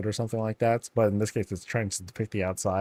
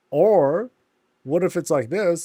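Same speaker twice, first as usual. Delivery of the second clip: higher, louder suggestion; playful alternative scare; 6 semitones higher, 6 dB louder than usual. Pretend. Suggesting a creepier scene to viewers, higher and louder. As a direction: pitch the scarier version. Showing another scare version.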